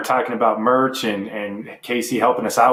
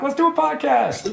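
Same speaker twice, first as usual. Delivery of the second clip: mock eager; 14 semitones higher than usual. Mock eager quote of himself.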